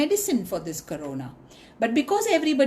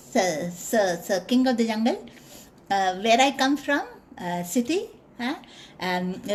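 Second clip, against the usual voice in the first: mouse voice. Acted.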